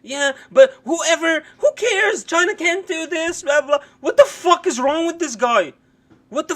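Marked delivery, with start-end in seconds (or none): 0.0-3.8 mocking the pundit. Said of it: "Look how he talks about".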